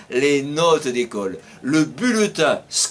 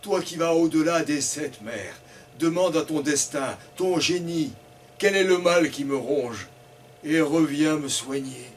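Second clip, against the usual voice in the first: lightly voiced sick tree; 2 semitones lower, 4 dB quieter than usual. Sick tree asks for help.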